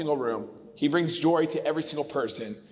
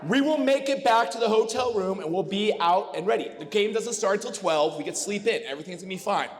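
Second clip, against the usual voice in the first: a hint of a higher, eager persuading voice; lightly imitated brother coaxing; 5 semitones higher than usual. Best man imitating his brother's promises at a toast, lightly higher. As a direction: talk your buddy into going out, lightly mocked. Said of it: "this is how Dustin gets me to go out".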